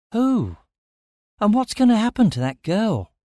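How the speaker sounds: high, urgent asking; alarmed questions. A narrator's reading. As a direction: press him anxiously.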